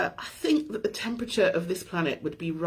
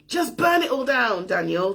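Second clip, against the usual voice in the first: higher, louder urging; emphatic friend's advice; 5 semitones higher, 4 dB louder than usual. Retold or imitated. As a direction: push it like a fired-up friend. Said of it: "range of opinions thrown at me".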